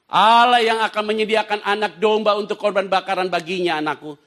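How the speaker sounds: high, full-force verse reading; loud scripture recitation. Acted. Preacher leading congregation in Abraham's reply, loud scripture recitation. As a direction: proclaim Abraham's answer loudly. Verse read aloud after count-in.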